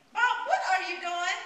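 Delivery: high, loud startled protest; alarmed. Acted. Woman protests as her lover undresses her, alarmed. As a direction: voice jumps up in alarm.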